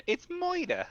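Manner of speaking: high, hammed-up accent with "Moida" for murder; comic accent, stretching "Moida"; comic put-on accent. Jokey put-on pronunciation of murder.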